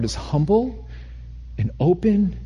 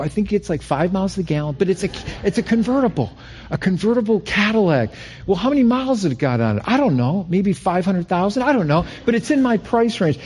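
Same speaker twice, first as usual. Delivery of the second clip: put-on higher, eager kid pitching his dad; eager pleading; 6 semitones higher, faster than usual. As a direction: sell dad on the car, lightly voiced. Young self pleading with dad.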